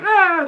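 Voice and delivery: mock burst of laughter, high; imitated laughing. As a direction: imitate mom cracking up. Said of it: "laughing her ass".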